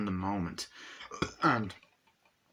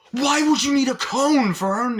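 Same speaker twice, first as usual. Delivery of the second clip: put-on much higher and louder, a squeaky kid voice; Vern's voice; 9 dB louder than usual. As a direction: squeak it out like a whiny little kid. Friend mocks Vern's comb.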